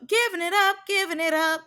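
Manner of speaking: giving it up jumped high with a rising tune; giving pitched high and rising, teasing; high, sing-song emphasis. Shown as a demonstration. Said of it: "repeated with rising emphasis".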